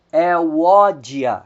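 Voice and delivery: "Euódia" stressed on "ó"; Greek diphthong demo. Shown as a demonstration. Teacher modelling the Greek name for students, stressing "ó". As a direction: land on "ó" in "Euódia". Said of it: "o acento recai sobre a segunda vogal".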